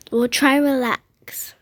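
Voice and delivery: slow hushed whisper. Acted. Mother whispering to calm the kids in the storm.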